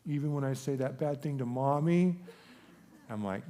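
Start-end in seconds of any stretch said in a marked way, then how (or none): 0.1-2.2 higher, lightly voiced little boy; child's question. Son asking dad whether he is still loved, lightly imitated child. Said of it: "And he says".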